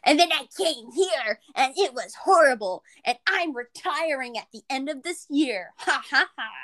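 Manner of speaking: sarcastic impression of a tired old teacher; mocking the teacher. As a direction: mimic a burnt-out teacher mockingly. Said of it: "be like".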